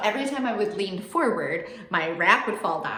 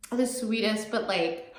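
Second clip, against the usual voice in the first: "The sweetest" through real tears, a little higher, laughing; tearful laugh; 4 semitones higher, slower than usual. Real, not acted. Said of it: "sorry, I am crying a little".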